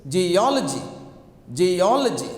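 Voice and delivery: geology with a strong "ol"; stress on second syllable. Shown as a demonstration. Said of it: "Where to put the stress?".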